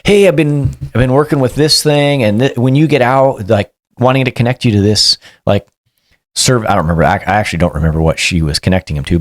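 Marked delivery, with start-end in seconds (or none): 0.0-6.7 higher, eager explaining voice; upbeat caseworker. Retold or imitated. Caseworker explaining a housing plan, lightly raised voice. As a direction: lightly voice the woman pitching a plan. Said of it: "she said".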